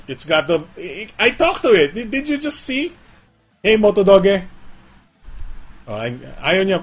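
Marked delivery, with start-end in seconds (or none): 3.6-4.4 loud, high call to the phone; talking excitedly to the phone. Real, not acted. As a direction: call out eagerly to wake the phone. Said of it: "when you're excited".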